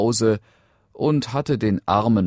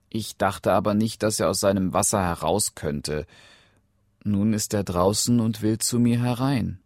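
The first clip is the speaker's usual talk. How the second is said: lightly voiced, higher princess; anxious princess; 5 semitones higher than usual. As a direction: explain yourself to father with mild distress. Princess explains to her father. (leicht bedrängte Prinzessin, etwas höher)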